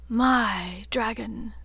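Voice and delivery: slow, deliberate, drawn out; a lightly voiced dark lord savouring possession; slow menacing claim; cold claim. Voldemort claiming Draco, cold.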